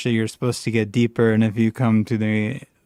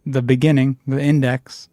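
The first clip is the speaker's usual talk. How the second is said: put-on Jamaican-like accent; 3 semitones higher than usual. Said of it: "That might be Jamaican".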